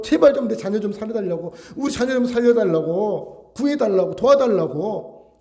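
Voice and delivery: insistent open-voiced begging; crying out. Shown as a demonstration. Desperate parent grabbing people to save the child, crying out. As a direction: beg urgently, pushing each plea out. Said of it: "이게 부르짖음이잖아요".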